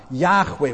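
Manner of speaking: "Yahweh" with a throaty h, as in loch; two syllables in "Yahweh", breathy-rough kh between; Yahweh pronunciation. Shown as a demonstration. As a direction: say "Yahweh" as YAKH-way. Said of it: "how it was properly pronounced".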